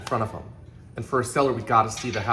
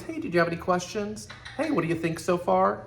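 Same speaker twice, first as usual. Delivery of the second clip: breezy, higher-pitched questions to a browsing visitor; light check-in; 5 semitones higher than usual. Shown as a demonstration. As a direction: keep it light and casual, pitched up. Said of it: "Keep it light".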